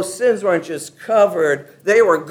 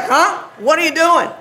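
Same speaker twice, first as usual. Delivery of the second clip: laughing mock surprise; 10 semitones higher than usual. Acts out puzzled reaction.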